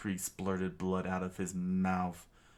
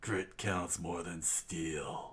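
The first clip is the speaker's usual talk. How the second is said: zacht en traag; 4 dB quieter, slower than usual. Acted. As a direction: deliver the lesson slowly. Mentor wisdom, slow.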